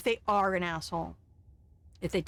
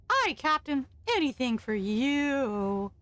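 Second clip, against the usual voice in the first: devoted officer; 5 semitones higher, slower than usual. Acted. Devoted security chief answering.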